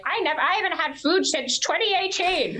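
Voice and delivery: mocking cult leader. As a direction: parody a smug guru claiming no food. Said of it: "leaders of this cult are like".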